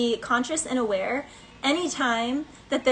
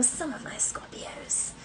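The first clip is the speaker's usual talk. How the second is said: whisper; 10 dB quieter, slower than usual. Real, not acted. Whispers to Scorpio audience.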